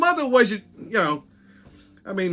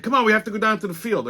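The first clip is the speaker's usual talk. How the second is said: higher, quick imitation of urging; urging colleague; 5 semitones higher, faster than usual. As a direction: hurry someone along in a retold quote. Colleague hurrying him to the field.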